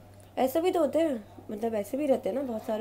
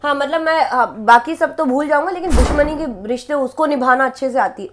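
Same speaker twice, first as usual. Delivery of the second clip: tough man character; 6 semitones higher, 11 dB louder than usual. Acted. Rehearses male character's lines.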